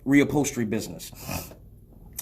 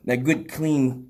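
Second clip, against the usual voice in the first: good, clean slowed and drawn out; stress on clean; slower than usual. Shown as a demonstration. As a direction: lean on "that good, clean" slowly. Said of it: "being an operative word there".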